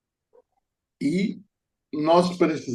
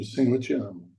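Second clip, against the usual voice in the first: "O Senhor te ama" said dryly and a bit softer, with no feeling; 2 semitones lower, 5 dB quieter, faster than usual. Retold or imitated. Preacher retelling telling a woman God loves her, dryly. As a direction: recite "O Senhor te ama" coldly, like a duty.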